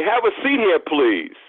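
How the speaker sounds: mock-courteous, high start that falls away; overly obliging. Preacher mimics seating the well-dressed visitor, overly obliging. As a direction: usher them in with exaggerated service. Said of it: "excessive service orientation toward them".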